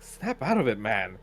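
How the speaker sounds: loud, high yelling through a door; scolding yell; angry shout. Acted. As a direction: shout at him to snap out of it. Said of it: "you can already hear, like".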